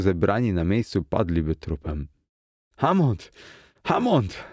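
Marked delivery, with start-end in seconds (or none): 2.8-4.4 high-pitched despairing cry of a name; desperate call. A narrator's reading. Struggling man begging Hammond for help, desperate call. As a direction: call out in despair, higher on the repeat. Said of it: "zawołałem już zrozpaczony".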